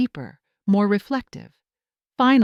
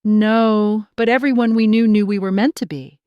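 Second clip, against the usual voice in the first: keeping it light; 2 semitones higher, 6 dB louder than usual. Acted. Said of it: "keeping it light".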